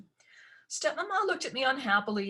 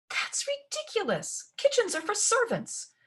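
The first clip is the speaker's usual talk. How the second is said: outraged. A narrator's reading. Ella protests sleeping in the kitchen, high and indignant. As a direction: scoff in indignation.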